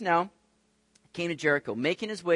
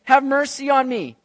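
loud, high, drawn-out plea; acted shout for mercy; calling out; 8 semitones higher, 6 dB louder than usual. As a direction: cry out like a blind beggar seeking help. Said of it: "He calls out with this messianic Hebrew title".

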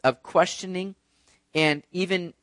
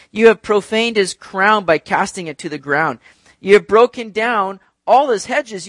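raised, emphatic Bible reading; scripture reading; 4 semitones higher than usual. Acted. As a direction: read out the psalmist's charges to a congregation. Reads scripture aloud to congregation.

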